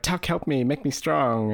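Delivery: high, pleading cry for help; desperate plea. Retold or imitated. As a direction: beg for strength. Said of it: "he's like".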